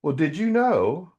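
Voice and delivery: slow, lightly voiced patient God; gentle God. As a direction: count each hair slowly, like a patient father. God gently answers the narrator.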